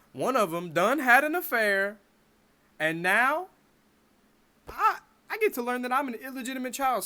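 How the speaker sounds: loud, high panicked rant; panicked outburst. Retold or imitated. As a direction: blurt it out in teenage panic. Panicked teen imagining an affair.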